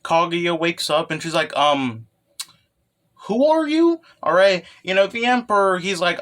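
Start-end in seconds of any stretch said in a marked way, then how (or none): 1.6-4.0 put-on high girl voice. Kaguya voiced waking up confused.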